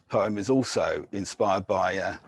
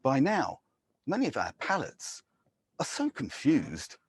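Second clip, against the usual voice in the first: poem reading; 2 semitones higher than usual. Acted. Poet guides listeners through the City of Truth, ironic. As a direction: deliver it like a wry brochure with pointed pauses.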